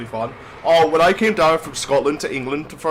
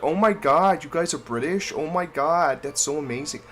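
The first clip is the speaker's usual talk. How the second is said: lightly put-on Californian woman's accent; mock American accent, Californian female style; Californian female impression. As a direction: imitate a gushing Californian woman. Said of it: "that was my Californian female".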